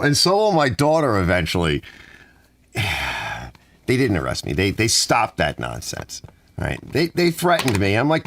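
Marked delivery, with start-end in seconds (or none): 2.7-3.5 sigh. Real, not acted. Sighs after the story.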